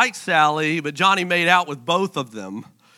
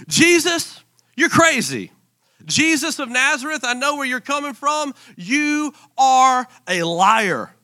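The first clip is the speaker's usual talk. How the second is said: high-pitched hammed-up outrage; mock accusing; 6 semitones higher than usual. Pharisees calling out Jesus, mock outraged. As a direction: play indignant accusers, voice pitched up.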